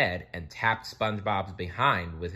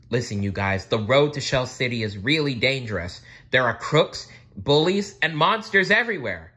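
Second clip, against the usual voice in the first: warning; 5 semitones higher, 7 dB louder than usual. A narrator's reading. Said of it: "she warned".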